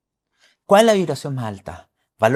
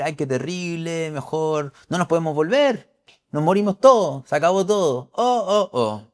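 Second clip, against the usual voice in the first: mock whining; 3 semitones higher, 3 dB louder than usual. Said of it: "a quejarse y a llorar y decir".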